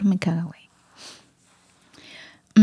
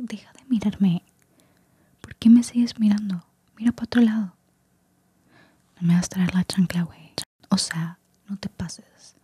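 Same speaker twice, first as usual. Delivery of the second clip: attempted Mexican accent; 2 semitones higher than usual. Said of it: "quise intentar hacer este acento mexicano".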